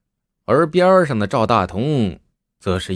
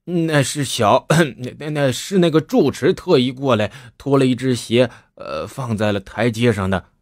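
wry laugh. Acted. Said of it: "赵大同苦笑道".

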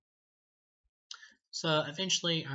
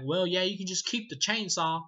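higher and louder, a dazed defeated goofball; beaten-up Ernest; 7 semitones higher, 6 dB louder than usual. Retold or imitated. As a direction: sheepishly give up the chainsaw, voice pitched up. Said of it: "he's like".

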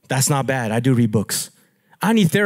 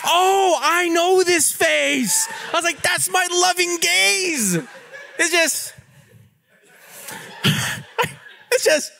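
laughing; 11 semitones higher than usual. Retold or imitated. Wife teasing about loving gaze.

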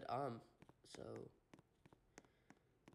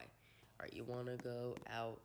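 whispering; 4 semitones lower, 6 dB quieter, slower than usual. Real, not acted. Quietly reading his chat line aloud.

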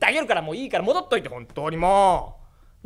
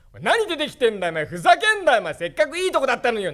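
angry grandpa; 4 semitones higher, 3 dB louder, faster than usual. Acted. Grandpa snapping at his father.

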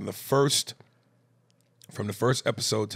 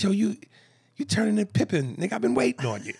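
retold excited shout; 10 semitones higher, faster than usual. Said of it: "I said".

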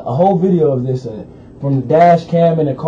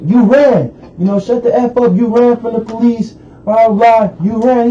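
mock yell, higher, at the man on the ground; angry cop yell; 5 semitones higher than usual. Cops yelling at the wounded man, a mock angry yell. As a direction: bark it like a cop pinning him. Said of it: "the other police ... are like".

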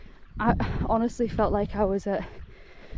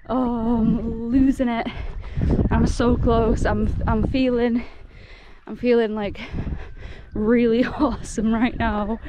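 excited. Real, not acted. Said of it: "excited, giddy noises".

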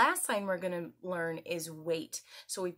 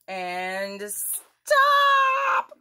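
high, louder stop; 11 dB louder than usual. Shown as a demonstration. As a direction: snap out the final word. Acting out the red light.

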